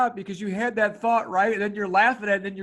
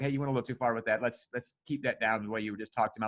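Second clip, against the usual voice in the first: lower, quick, calm correction; really calm; 7 semitones lower, 5 dB quieter, faster than usual. Retold or imitated. Parent calmly correcting a daughter's way of talking, low and even. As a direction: set the boundary low and unruffled. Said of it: "But I'm really calm".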